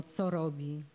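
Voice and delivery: plain reading voice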